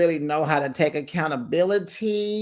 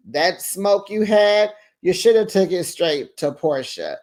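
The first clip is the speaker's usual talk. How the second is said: emphatic scolding; 4 semitones higher than usual. Real, not acted. Host scolding Shamea directly.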